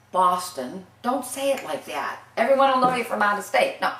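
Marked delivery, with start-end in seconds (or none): 0.1-0.8 BOSTON with a rounded outsider's first vowel; wrong non-local Boston. Shown as a demonstration. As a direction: say BOSTON like someone from out of state. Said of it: "No, don't say".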